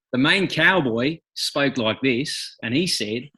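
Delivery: slow, broad Australian accent; Australian-accented storytelling. Shown as a demonstration. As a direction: start the tale in an Australian accent. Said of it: "in an Australian accent?".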